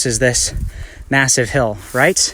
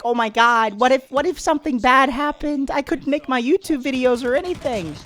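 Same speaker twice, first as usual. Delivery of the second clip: mock panic; 9 semitones higher than usual. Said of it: "I was freaked out for hours".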